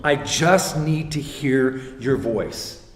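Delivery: slow, emphatic retold plea; earnest plea. Son pleading to hear God's voice, earnest and emphatic. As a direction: draw out each word, pleading a little.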